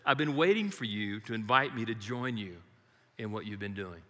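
calm, tender welcome fading away; gentle voice of God. Retold or imitated. God answering the believer's cry for help, gently. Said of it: "He instantly says".

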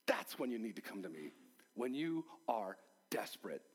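hushed, low and quick, Jesus speaking close; an intimate whisper of Jesus' invitation. Retold or imitated. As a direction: lean in and whisper it urgently. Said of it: "he's saying".

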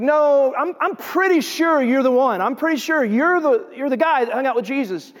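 insistent accusation. Acted. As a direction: press them as if you recognize them. Bystanders accuse Peter, insisting.

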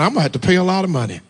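mock grumble. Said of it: "I grumbled around the house thinking".

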